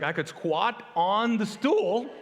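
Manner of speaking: slow words broken by laughter; laughing quote. Retold or imitated. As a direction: drag it out while laughing. Wife's suggestion, laughter.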